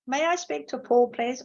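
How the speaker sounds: caller politely asking for Paul; polite English caller. Retold or imitated. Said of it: "You'd have to say".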